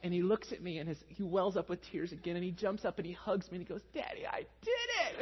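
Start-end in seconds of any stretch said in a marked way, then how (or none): 3.9-5.2 put-on excited child voice. Son jumps up hugging dad.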